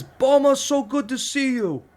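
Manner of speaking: high, slowed friendly bear of a man; Taz impression. Big friend greeting him after six months, high and slow. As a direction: boom it out like a big happy friend. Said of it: "and says".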